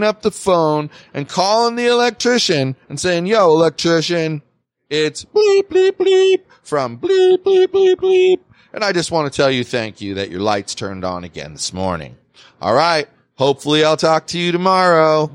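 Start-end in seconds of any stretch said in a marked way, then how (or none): 3.3-4.4 mock phone call to the electrician. 4.9-8.4 silly bleeps, much higher, pitched up like a censor tone; high squeaky bleep noises. Pretend. Squeaky bleeps over his name. 8.7-15.3 mock phone call to the electrician.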